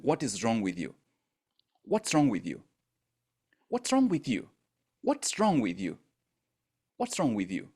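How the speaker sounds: nagging scold, repeated over and over; critical inner voice. Retold or imitated. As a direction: berate yourself, the pitch jumping up on one take. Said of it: "does that inner voice speak like that".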